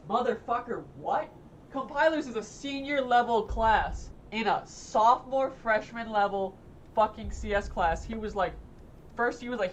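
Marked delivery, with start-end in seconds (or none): 0.1-8.0 outraged. Real, not acted. Ranting about too-hard class.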